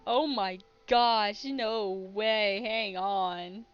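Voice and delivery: stunned it actually exists; surprised disbelief. Real, not acted. Discovering the movie is on Spotify.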